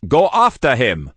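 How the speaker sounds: loud, sharp shout; shouted order. Acted. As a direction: send him running after the priest. Boss orders the chase.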